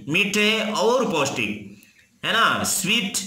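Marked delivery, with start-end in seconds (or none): 0.1-1.8 मीठे और पौष्टिक with और in the middle, said slowly; slow correct answer, और between the words; correct word order demo. Shown as a demonstration. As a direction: give the right Hindi order slowly and clearly. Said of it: "ऐसे बोलते हैं हिंदी में क्या?".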